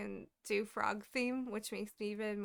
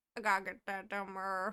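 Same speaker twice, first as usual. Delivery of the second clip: put-on rural Southern US accent. Showing the other speaker a Squidbillies accent. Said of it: "what I call a Squidbillies accent".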